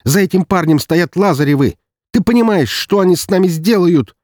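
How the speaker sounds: very high, loud frantic shout; panicked brother shouting about the Lazarevs; panicked yell. Acted. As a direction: shriek the warning at him.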